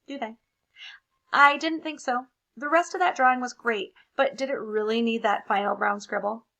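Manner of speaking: loud, put-upon crayon voice; embarrassed brown crayon. Acted. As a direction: grumble with mock embarrassment.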